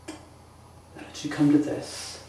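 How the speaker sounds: slow despairing whisper. Acted. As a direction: breathe it out slowly. Grieving prince alone, despairing.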